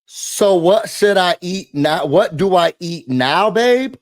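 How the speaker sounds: slow, deliberate read-out of a text, lifting on "babe". Retold or imitated. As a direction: read the text slowly, pitch up on the last word. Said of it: "and the text message says".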